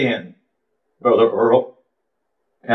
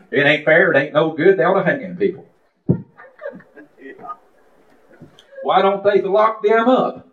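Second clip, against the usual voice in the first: re-enacted complaint, rising at the end; mock indignation, building higher; retold indignant griping; 7 semitones higher than usual. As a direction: act out a mild fed-up rant. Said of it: "But what I was doing".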